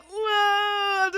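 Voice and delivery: high, loud dodging whoa; Matrix whoa. Retold or imitated. Dodging a coworker's hand like Keanu, loud high whoa. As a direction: yell whoa while dodging in slow motion. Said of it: "So I'm doing that".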